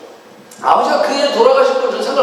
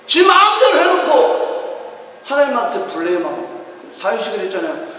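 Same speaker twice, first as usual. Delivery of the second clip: usual speaking voice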